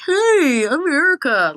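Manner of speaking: high, loud eager hello; bright, hammed-up fangirl hi; dorky fan greeting. Shown as a demonstration. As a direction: play the overeager fan introducing herself. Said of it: "I wouldn't say it like that".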